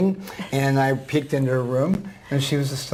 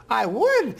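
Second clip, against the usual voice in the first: put-on high, slow frail old lady; old woman voice; 10 semitones higher than usual. Guest imitates the elderly reading student, high and slow. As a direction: voice the ninety-four-year-old gently. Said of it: "I'm gonna use a voice that s-, sounds like her".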